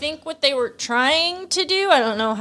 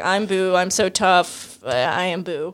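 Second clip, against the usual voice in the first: Chad Boo voice; 4 semitones lower than usual. Retold or imitated. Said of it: "Chad Boo voice".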